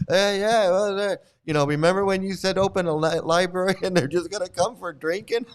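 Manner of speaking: high, loud, laughing disciple voice; mock sycophantic disciple. Disciple reminding the guru of his old joke, high laughing mockery. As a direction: egg the guru on with chuckles.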